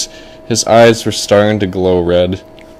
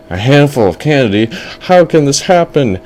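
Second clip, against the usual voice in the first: put-on wondering kid, rising higher at the end; amazed boy; 4 semitones higher than usual. Boy questions the candy prediction, mildly amazed. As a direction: ask it like a lightly astonished boy. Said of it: "the boy was like".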